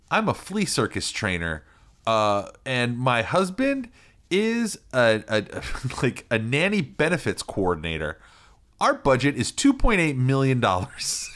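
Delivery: high, giggly TV contestant voice; chirpy house-hunter intro; mock reality show guest. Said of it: "it's always like".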